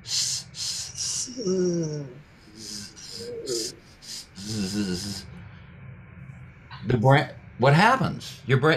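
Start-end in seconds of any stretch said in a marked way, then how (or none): 0.0-5.2 repeated soft hisses; short quiet hisses; hissing S. Shown as a demonstration. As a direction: hiss with fingers in ears. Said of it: "make the S sound".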